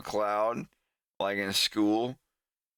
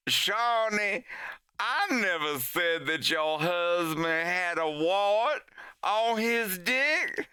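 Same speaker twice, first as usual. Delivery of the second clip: higher, fussy correction slowing at the end; prim denial; 5 semitones higher, slower than usual. Retold or imitated. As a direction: deny it with mock primness.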